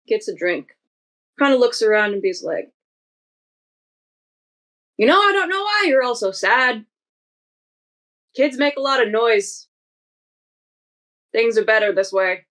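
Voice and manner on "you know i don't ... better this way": cocky stranger needling the whole bar. Acted. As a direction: say it with smug, lightly voiced confidence. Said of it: "Real cocky".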